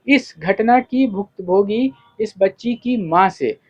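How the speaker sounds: TV reporter's piece to camera, swinging intonation; news report. Real, not acted. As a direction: present it as a field news report, stressing key phrases. (समाचार reporter की शैली)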